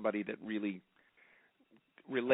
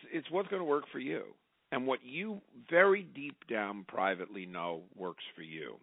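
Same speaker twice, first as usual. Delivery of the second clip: ordinary talk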